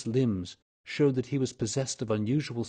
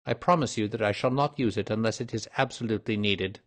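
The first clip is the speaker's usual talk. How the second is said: businesslike detective; 2 semitones higher than usual. Acted. Detective promising discretion to the old man, lightly voiced, firm. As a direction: lay out the plan clearly in a raised pitch.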